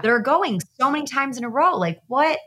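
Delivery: puzzled judgment of the regulars, half-mocking; judgmental. Retreat newcomer sizing up repeat attendees, mildly judgmental. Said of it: "I was a little judgmental".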